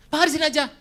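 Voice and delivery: high, rushed pleading excuses; mock anxious church member; nervous excuses. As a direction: talk him out of driving you home.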